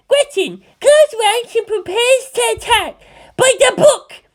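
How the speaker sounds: very high, loud barked orders; little commander. A narrator's reading. Nozomi orders the kids to attack, high loud command. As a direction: command the troop like a tiny general.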